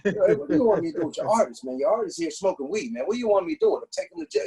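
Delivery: mock-sweet polite cop voice; extra nice. Cop on the phone to the boss, overly nice. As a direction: play it overly courteous, like a secretary. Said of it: "He was extra nice".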